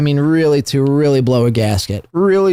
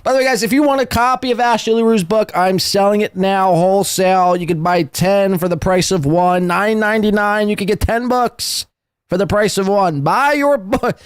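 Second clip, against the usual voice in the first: higher-pitched joke pitchman; mock sales pitch; 4 semitones higher than usual. Host jokingly selling the book wholesale, mock salesman. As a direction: play at hawking a bargain, pitched up.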